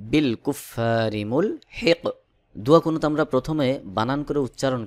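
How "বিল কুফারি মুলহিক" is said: বিল কুফারি মুলহিক with the final q bounced, no "un"; qalqalah stop. Shown as a demonstration. Teacher reading the phrase with its pause, qalqalah stop. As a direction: run into মুলহিক and stop on an echoed q. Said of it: "কফকে কলকলাহ করে উচ্চারণ করে পড়তে হবে".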